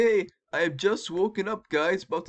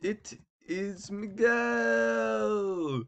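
slow dictation; 2 semitones higher, much slower than usual. Real, not acted. Slowly dictating while typing.

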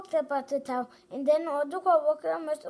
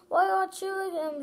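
higher, protesting question; child reading outrage; indignant cry; 5 semitones higher than usual. Acted. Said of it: "she cried".

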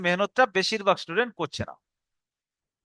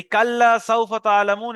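slower spelling read; 3 dB louder than usual. Shown as a demonstration. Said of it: "এটা বানান করবেন".

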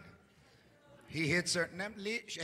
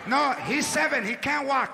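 protective mom; 2 semitones higher than usual. Acted. Latina mom defending her seven-year-old, insisting. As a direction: defend the boy like a doting mom.

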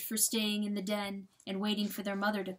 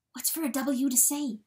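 plain reading voice

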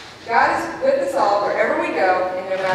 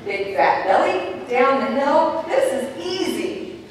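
put-on kid's quote; 3 semitones higher, slower than usual. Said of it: "another time he's saying".

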